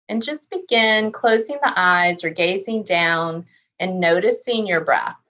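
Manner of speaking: calm, measured meditation voice with long pauses; unhurried body-scan guidance, settled and even; guided meditation. Real, not acted. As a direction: gently guide them through a body scan, leaving space to breathe.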